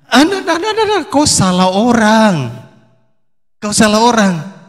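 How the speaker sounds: caught-out, stammering denial; panicked denial. Acted. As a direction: deny it in a flustered panic. Peter panics, denying Jesus.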